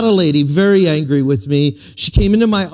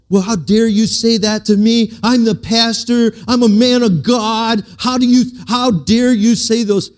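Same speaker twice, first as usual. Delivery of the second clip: mock defensive pastor; 5 semitones higher than usual. Pastor imagining a defensive answer to the woman, mock indignant. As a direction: play the offended pastor, hammed-up. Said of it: "gotten defensive".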